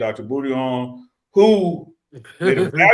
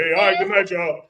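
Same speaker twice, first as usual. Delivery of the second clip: mock sign-off; 5 semitones higher, 3 dB louder than usual. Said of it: "Chuck already".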